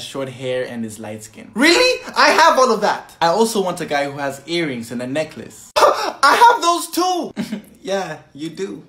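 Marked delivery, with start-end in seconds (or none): 1.5-3.2 eager excited. Acted. 5.8-7.6 slow, gasping and thrilled; gasp, then drag it out proudly; eager gasp. Acted.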